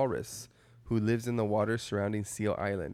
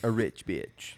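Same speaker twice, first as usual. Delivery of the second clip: hushed whisper; slower than usual. Real, not acted. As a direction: whisper it like a secret. Unvoiced whisper.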